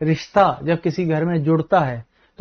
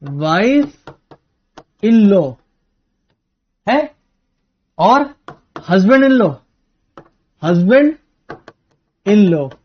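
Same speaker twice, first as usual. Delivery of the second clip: teasing punchline; 4 dB louder, much slower than usual. Shown as a demonstration. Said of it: "क्या होता है?".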